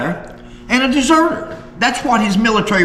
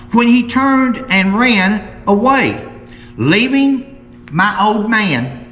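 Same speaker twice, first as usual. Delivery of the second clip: slow, deliberate article reading; reading aloud; slower than usual. Acted. Host reads Mary Vance's words from a newspaper to viewers, slow measured reading. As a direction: read it out in measured, emphatic phrases.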